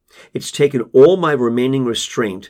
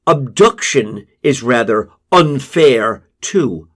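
shooting back; 2 semitones higher, 5 dB louder, slower than usual. Acted. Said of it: "I shoot back".

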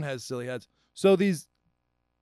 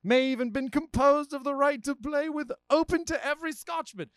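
mock formal letter reading; 4 semitones higher than usual. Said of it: "I can't do a Scottish accent. It's guttural".

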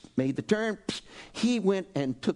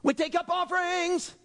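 mock temple know-it-all; 11 semitones higher than usual. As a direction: play the smug objector correcting Jesus. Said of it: "I'd go up to Jesus and say".

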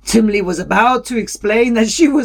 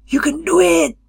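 Qualo voice; 9 semitones higher, faster than usual. A narrator's reading. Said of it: "Qualo said".

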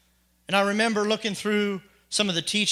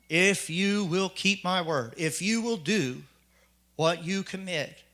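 solemn warning; slower than usual. Retold or imitated. Quotes God's warning at baptism.

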